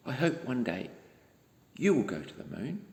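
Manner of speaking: soft, tender words to the listener; warm closing wish. Real, not acted. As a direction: bedtime goodnight wish. Reader's closing wish to child.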